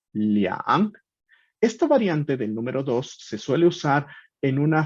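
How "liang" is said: "liang" drawn out as one Mandarin syllable; Mandarin pronunciation. Shown as a demonstration. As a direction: model "liang" slowly for a learner. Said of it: "Se trata del numeral".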